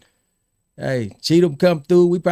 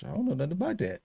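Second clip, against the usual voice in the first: evasive denial; 4 semitones higher, 10 dB quieter, much faster than usual. Retold or imitated. Court worker dodging questions from the public, evasive. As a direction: drop the volume and duck the question.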